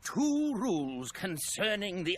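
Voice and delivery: measured, grand presenter read; orientation video host. Acted. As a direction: explain the clock's history with ceremony.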